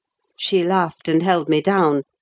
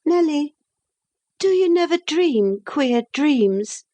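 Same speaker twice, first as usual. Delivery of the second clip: put-on lightly raised young woman's voice; young Catherine; 9 semitones higher than usual. A narrator's reading. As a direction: speak up as the restless young lady.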